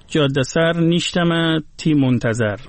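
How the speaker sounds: slow, measured Gilaki verse line in a Persian lilt; Gilaki read Persian-style. Shown as a demonstration. Host reciting a Gilaki poem line for listeners, slow Persian-style reading.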